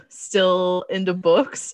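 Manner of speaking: slow, stiff mock line; stilted dialogue. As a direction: read it like wooden movie dialogue. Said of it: "And she's like".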